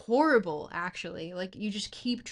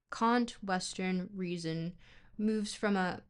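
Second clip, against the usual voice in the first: reading philosophy in a British accent; British-accented academic read-aloud. Shown as a demonstration. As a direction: put on a measured British reading voice. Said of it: "easier to, to read in a British accent".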